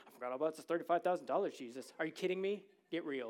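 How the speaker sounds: loud, fast, mocking disbelief; sarcastic retort. Disciples mocking Jesus' request, loud sarcastic disbelief. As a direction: throw it back at him, scoffing and loud. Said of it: "the most sarcastic, disrespectful, and honest moment".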